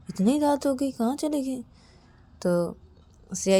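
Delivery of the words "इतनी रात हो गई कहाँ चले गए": puzzled worry. A narrator's reading. Shreya wonders where partner went.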